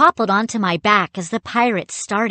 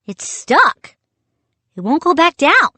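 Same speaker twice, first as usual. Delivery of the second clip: high, urgent alarm; 8 semitones higher, 5 dB louder than usual. Acted. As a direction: blurt it out in rising panic. Brother cannot push puppet back.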